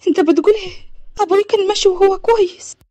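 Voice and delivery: high-pitched, shocked protest; acted daughter in shock; distressed disbelief. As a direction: refuse the news, voice rising. Daughter disbelieves news of death.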